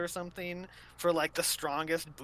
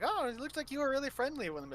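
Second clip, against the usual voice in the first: sassy; 9 semitones higher than usual. Retold or imitated. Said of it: "I was getting kinda sass".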